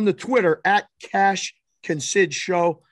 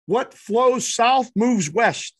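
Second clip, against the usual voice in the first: slow, higher, drawn-out coded shout; yelled code call; 4 semitones higher, much slower than usual. Retold or imitated. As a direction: call out the riddle signal slowly. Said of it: "he yells to the pitcher".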